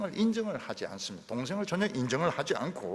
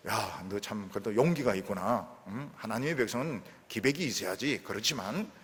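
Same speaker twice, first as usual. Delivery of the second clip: kind encouragement; 5 semitones lower than usual. Pretend. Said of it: "이렇게 하지 않고".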